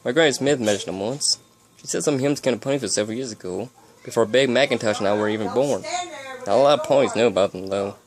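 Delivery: put-on light southern cowgirl accent; a hint of southern country accent. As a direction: say it with a mild southern twang. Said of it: "said in a southern accent".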